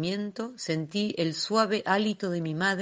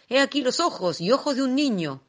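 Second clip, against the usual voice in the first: high, loud, gleeful cry; villain's loud high gloating; gloating shout; 7 semitones higher, 6 dB louder than usual. A narrator's reading. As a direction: crow it over the captured child. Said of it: "gritó".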